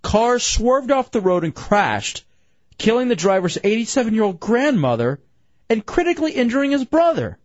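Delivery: measured radio news delivery; news read. Acted. Host reads a crash report to co-hosts, news read. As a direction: lay out each fact like a newsreader.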